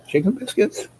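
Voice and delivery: mock amazed echo; surprised question. Surprised at chicken for breakfast.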